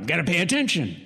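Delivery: a hint of a gruff drill sergeant; a little gruff. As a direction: bark it lightly like a tired foreman. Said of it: "A little gruff".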